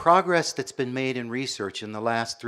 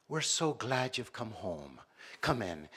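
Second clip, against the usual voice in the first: warm welcome; 7 dB quieter, slower than usual. Retold or imitated. Acted welcome from Irish cousin.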